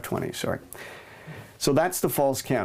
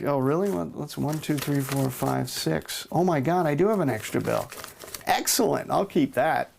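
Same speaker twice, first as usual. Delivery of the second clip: mock surprise; 2 semitones higher than usual. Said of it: "you would just be like".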